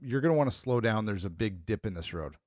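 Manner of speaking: low-key, softly falling heads-up; calm warning. Retold or imitated. Husband warning wife of a dip, calm and understated. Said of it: "like, calmly".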